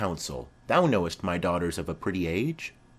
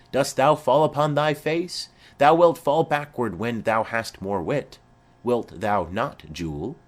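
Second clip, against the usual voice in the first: husband's voice; 2 semitones higher, 3 dB louder than usual. Retold or imitated. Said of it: "quoth he".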